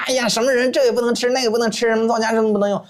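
high-pitched mock fussing, held up throughout; mock objector. Herbal doctor mimics those forbidding everything, mock-alarmed. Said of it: "不用像他们说的".

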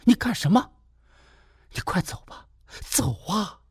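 sharp high cry, then a hissed order to leave; suddenly furious, shooing him out; turning angry. Acted. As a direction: flares up high, then drops to a hiss. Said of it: "赵玉茹一下给翻脸了".

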